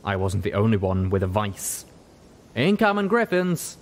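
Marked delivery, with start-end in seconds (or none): 2.5-3.8 high, slow shouted warning; called warning. Acted. Calamity warns the crew of griffins, a slow loud call. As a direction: warn the crew from across the deck. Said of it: "Calamity called out".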